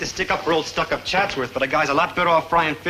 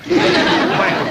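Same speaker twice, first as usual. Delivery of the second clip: gleeful yelp; 12 semitones higher, 4 dB louder than usual. Acted. Maynard's joke.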